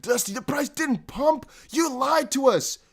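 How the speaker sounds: high, slow whiny complaint; mock angry viewer. Streamer mimicking a viewer accusing him, high slow mock whine. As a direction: whine like a let-down fan. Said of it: "to make sure people don't get scared".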